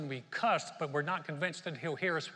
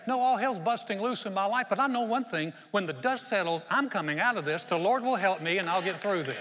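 louder, firm faith-filled proclamation; bold declaration; 4 semitones higher, 5 dB louder than usual. Retold or imitated. Preacher modelling what believers can say in trouble, bold declaration. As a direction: declare it like you mean it. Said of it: "You can say".

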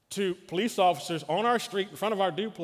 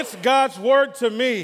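triumphant; 6 semitones higher, 8 dB louder, slower than usual. Acted. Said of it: "Let's say it one more time".

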